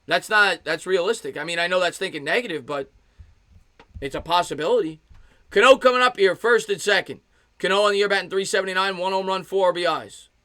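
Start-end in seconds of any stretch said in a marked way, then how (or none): 5.5-10.3 raised, projected baseball call; sportscaster delivery, stretching out the swing; live play-by-play. Real, not acted. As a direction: announce the batter, then follow the pitch. Calls the at-bat live.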